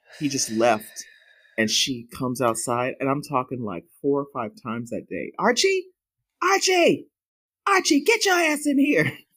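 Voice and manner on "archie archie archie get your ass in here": shrill, very high, acted-out holler. Retelling calling her dog Archie back inside, retelling a holler.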